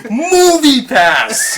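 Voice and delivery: laughing drawn-out echo. Acted. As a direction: stretch it out, laughing. Echoed slogan, slower.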